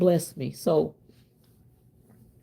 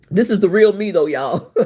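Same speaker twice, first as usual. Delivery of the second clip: laughing; 4 dB louder than usual. Real, not acted. Laughing at own confession.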